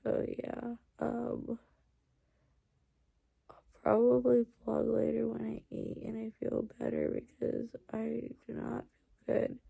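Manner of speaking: drowsy, sleepy voice; barely awake, fading; falling asleep. Real, not acted. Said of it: "I'm, like, literally falling asleep".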